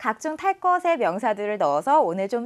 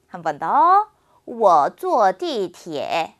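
sentence read very slowly for students to repeat; slow, clear drill sentence for the class; slow model reading; much slower than usual. Shown as a demonstration. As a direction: read it word by word like a language teacher.

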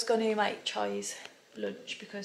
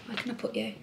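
normal talking voice

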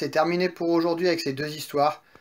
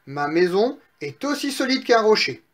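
higher, self-assured piglet; satisfied piglet; 4 semitones higher than usual. Acted. Third piglet vouches for his house to brothers, satisfied. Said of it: "dit le troisième petit cochon satisfait".

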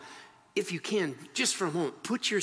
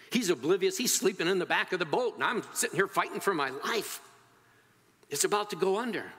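agitated, higher-pitched grievance; fearful, angry complaint; 5 semitones higher than usual. Acted. Believer complaining to God amid trouble, angry and afraid. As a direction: protest as if fighting to stay afloat. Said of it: "Have you ever asked God in fear and anger".

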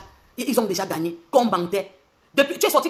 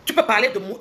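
louder, defiant dare; loud challenge; 5 dB louder than usual. Real, not acted. Angry challenge to a rival.

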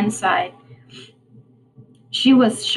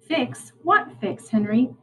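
puzzled; slower than usual. Acted. Rowan puzzled.

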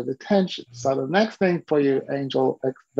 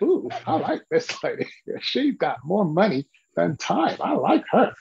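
delighted laughing; 3 semitones higher than usual. Retold or imitated. Delighted by client's reply.

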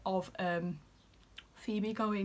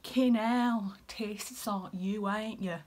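broad Yorkshire, punched loud at the start; Yorkshire accent; 3 dB louder, much slower than usual. Acted. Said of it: "you can really hear the Yorkshire accent".

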